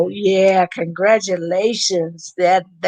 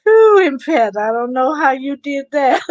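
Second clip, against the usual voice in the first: laughing; 6 semitones higher, 3 dB louder than usual. Real, not acted. Laughing amazement at viewer.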